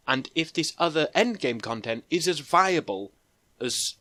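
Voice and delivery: flat monotone, trailing softly. Real, not acted. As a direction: drone on in a monotone. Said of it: "rattling on in a really monotone voice".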